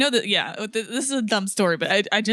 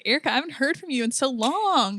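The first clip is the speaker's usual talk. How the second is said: higher-pitched, sweet friend's greeting; imitating sweet friend; 6 semitones higher than usual. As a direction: mimic a friend pleased to hear from you. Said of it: "So sweet. She's like".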